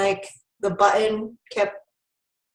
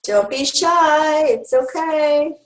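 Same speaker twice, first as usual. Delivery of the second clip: coaxing; 5 semitones higher, much slower than usual. Real, not acted. Coaxing attendees to ask questions.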